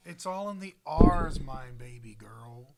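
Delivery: drawn out, then whispered endearment; teasing. Real, not acted. Teasing cohost about accents, slow then whispered. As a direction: draw it out then whisper the pet name. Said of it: "teasing explanation".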